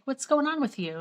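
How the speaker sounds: high, chatty check-in question; friendly. Retold or imitated. Nice doctor's friendly opening question.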